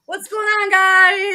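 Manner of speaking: high, loud casual hello; swooping in acting cool; breezy greeting. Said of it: "He just kinda swoops down".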